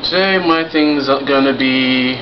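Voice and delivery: talking through a face mask; muffled through mask. Real, not acted. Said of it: "I'm speaking through a mask".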